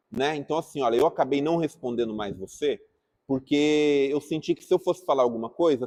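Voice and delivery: approach Alex kindly to clear things up; gentle reconciliation. Shown as a demonstration. Speaker reconciles with Alex after not replying, soft and gentle. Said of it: "posso chegar no Alex e falar".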